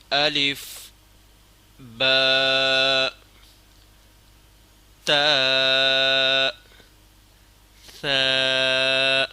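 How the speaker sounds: each letter name intoned clearly and held; Arabic letter recitation. Shown as a demonstration. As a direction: recite الف، با، تا، ثا like a Qur'an teacher. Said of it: "بسم اللہ الرحمن الرحیم".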